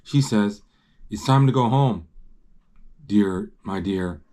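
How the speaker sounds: measured read-aloud storytelling; story narration. A narrator's reading. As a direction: read the picture book out clearly.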